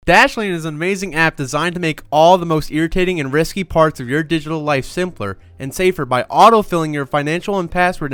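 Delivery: ad read. Acted. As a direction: pitch the product with energy. Reads the sponsor ad.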